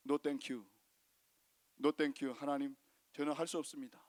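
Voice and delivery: 낮고 조용하게 사양하듯; 움츠러든 목소리로 거절; 거절하는 기드온. Acted. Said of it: "그랬더니 기드온은". (기드온이 하나님께 낮게 거절하는 목소리)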